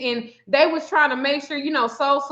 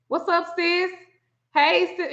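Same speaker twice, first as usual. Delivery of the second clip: a touch higher, mock-familiar hello; lightly imitated sisterly greeting; 5 semitones higher than usual. Mimicking producers greeting her on Skype, mock-familiar. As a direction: lightly put on their chummy greeting. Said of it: "they literally was like".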